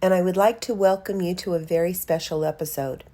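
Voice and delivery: measured, clearly phrased welcome read; podcast introduction. Real, not acted. Host welcomes listeners to a special poetry episode, scripted introduction read. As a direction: present each guest with deliberate pauses.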